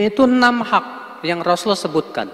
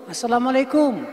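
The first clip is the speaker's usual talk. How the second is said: greeting then call; 5 semitones higher than usual. Shown as a demonstration. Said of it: "Salam dulu, baru kita tegur".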